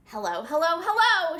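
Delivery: hellos rising to a loud call. Acted. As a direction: call out across the forest, building. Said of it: "shouted Jitterbug".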